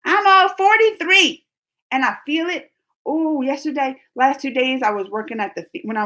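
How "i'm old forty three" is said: hammed-up crying complaint about age; mock wail. Streamer hamming up being old to chat with a mock wail. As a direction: whine it like a fake sob, louder. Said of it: "I'll be like".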